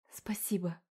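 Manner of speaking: breathless grateful whisper. A narrator's reading. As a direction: whisper your thanks, barely voiced. Rescued mother thanks demon.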